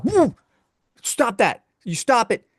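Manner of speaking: squeaky high yelp of stop it; panicked high protest at the porn actress; high-pitched alarmed protest. Retold or imitated. Telling the screen off in a high squeaky panic. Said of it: "I'm like".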